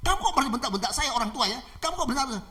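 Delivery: high indignant scolding; acted offence at being yelled at; angry attacker. Older man scolding the girl for shouting, angry. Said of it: "sambil marah-marah".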